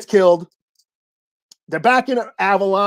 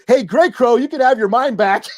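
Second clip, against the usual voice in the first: lightly raised, higher retold call; mock calling out; 4 semitones higher than usual. Empath to Grey Crow while fleeing, mock calling out. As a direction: toss it back like someone running off, amused.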